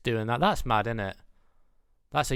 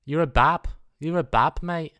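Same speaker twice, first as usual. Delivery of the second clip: higher-pitched, slow mock condescension toward a teen; patronising older mate; 6 semitones higher, 3 dB louder than usual. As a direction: talk down to a kid, hammed-up. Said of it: "I'm like".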